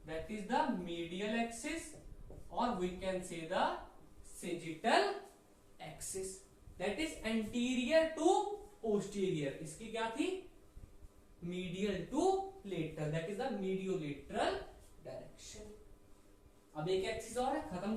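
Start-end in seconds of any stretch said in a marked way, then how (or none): 0.1-9.5 very slow, spaced words for writing; slow dictation. Shown as a demonstration. Teacher dictating the axis definition slowly. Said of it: "दो word लिख लें". 11.4-15.6 slow dictation. Shown as a demonstration. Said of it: "दो word लिख लें".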